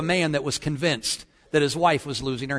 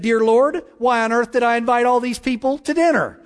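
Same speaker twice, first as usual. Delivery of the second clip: higher, louder mock prayer; daughter mimicking mom; 5 semitones higher, 3 dB louder than usual. Daughter prays as Mommy would before dinner guests, mock exasperated prayer. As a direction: pray like a child parroting an exasperated parent. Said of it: "the daughter bowed her head and said".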